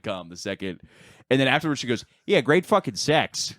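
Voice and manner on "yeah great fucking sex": sarcastic. Retold or imitated.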